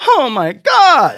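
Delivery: high, slow, amazed gasp; a kid whose head is exploding with wonder; high slow child awe; awed kid. Retold or imitated. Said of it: "And the kid's like".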